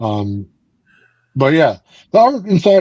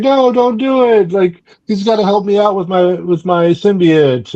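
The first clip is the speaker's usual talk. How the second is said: mock upset; 6 semitones higher than usual. Retelling the comic character's angry plea, mock upset. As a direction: imitate her pleading crossly, pitched well up. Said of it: "she's all mad".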